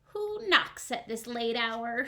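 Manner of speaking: slow, drawn-out snail call. Acted. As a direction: ask lazily from the window. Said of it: "she called".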